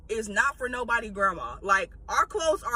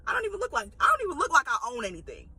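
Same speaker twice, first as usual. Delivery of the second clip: inner sass; 2 semitones higher than usual. Retold or imitated. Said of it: "But in my head".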